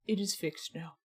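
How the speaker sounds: playfully imitating a chatter's reassurance; laughing mock reply. Wanting chat to confirm the mic, laughing. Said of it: "I just need someone to be like".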